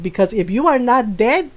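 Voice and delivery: put-on lightly accented, low-pitched scolding mom; imitating stern mom. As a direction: mimic a mother laying down the law. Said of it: "she do my voice very well".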